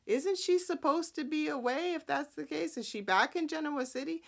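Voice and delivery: high puzzled questioning voice; lightly voiced baffled relatives; mock confused family. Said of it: "they're like".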